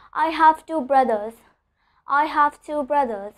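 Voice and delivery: slow demo, voiced th in "brothers"; "brothers" with a buzzed, voiced th. Shown as a demonstration. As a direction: keep the voice on through th in "brothers". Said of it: "here I'm pronouncing it the voice".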